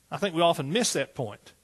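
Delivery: usual speaking voice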